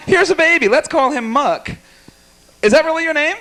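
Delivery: put-on high, sing-song baby voice; baby talk. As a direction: coo at him like a baby. Teasing the heckler.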